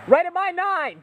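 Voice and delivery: loud urgent callout; cover me shout. Real, not acted. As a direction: call it out over gunfire.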